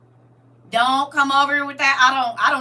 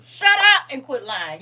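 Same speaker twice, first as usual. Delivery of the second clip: louder snap, shut it down; telling liars off, louder; louder scolding; 5 dB louder than usual. Shown as a demonstration. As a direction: raise it on the last take. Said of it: "Shut up and quit lying to people".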